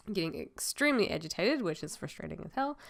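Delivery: choked-up voice with a stuffy nose. Real, not acted. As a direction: talk through a choked-up, blocked nose. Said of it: "why I sound like I'm choked up".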